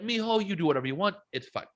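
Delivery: high, quick imitation of a Mexican mom; Mexican mom accent. Son retelling his mom's permission, imitated Mexican accent. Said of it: "my mom's Mexican. Dude, she was like".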